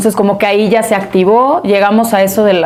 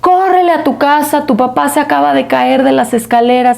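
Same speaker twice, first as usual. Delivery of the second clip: higher, urgent retelling of the housekeeper's alarmed call; urgent phone call; 3 semitones higher than usual. Retold or imitated. Housekeeper urgently calling the daughter about her fallen father, alarmed. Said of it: "me marca Patty".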